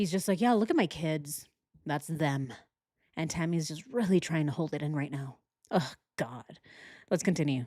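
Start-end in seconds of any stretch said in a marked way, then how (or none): 0.4-2.5 put-on blank, feelingless, emotionless tone. Imitating a man showing pictures of his children: imitating an emotionless voice. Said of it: "He's not even crying".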